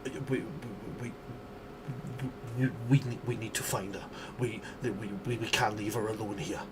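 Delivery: frightened, stuttering, fading to a whisper; shaky stammering. Acted. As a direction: stutter like a traumatized survivor. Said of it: "with a, a shaky voice".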